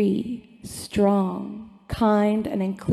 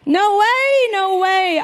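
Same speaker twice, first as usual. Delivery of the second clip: emphatic; 10 semitones higher, 6 dB louder, slower than usual. Acted. Emphatic refusal in the speech.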